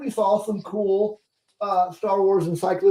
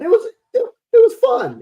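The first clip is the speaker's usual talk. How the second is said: laughing; 4 dB louder than usual. Real, not acted. Laughing while praising movie.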